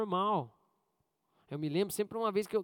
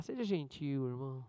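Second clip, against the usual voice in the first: gentle demo; 7 semitones lower, 7 dB quieter than usual. Shown as a demonstration. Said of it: "Treina aí com quem tá do seu lado".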